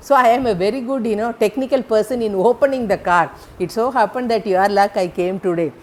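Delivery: ex-thief boasting to the lady, fast and loud; boastful boy. Retold or imitated. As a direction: rattle off his car-opening skill with pride. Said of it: "Then he will say".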